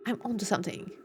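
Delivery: low, soft mutter; dropped down, musing; quiet self-talk. Real, not acted. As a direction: say it under your breath to yourself. Muttering to self after outburst.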